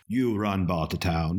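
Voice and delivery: slow quote in affected British; a singer's affected British accent. Retold or imitated. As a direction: put on a slightly British accent, unhurried. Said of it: "a singer's affected British accent".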